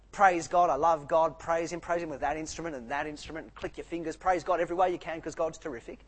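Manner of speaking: imitating a jubilant worshipper; joyful praise. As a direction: cheer God on like a happy psalmist. Joyful psalm voiced.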